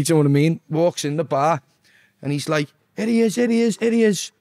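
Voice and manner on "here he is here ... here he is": imitating a high-pitched, rousing greeting; high, repeated cheer of welcome; excited welcome. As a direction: hail a mate walking into the bar. Acted greeting as he enters bar.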